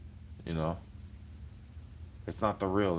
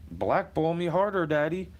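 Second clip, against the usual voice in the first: sarcastic taunt; 8 semitones higher, 4 dB louder than usual. Pretend.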